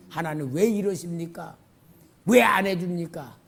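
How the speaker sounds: normal talking voice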